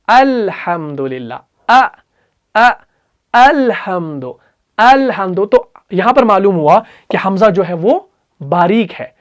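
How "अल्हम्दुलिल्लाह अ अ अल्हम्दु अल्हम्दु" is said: slow, light hamza in अल्हम्दु; light hamza recitation. Shown as a demonstration. Teacher shows the light hamza in Alhamdu. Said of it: "नहीं है पुर, तो क्या है?".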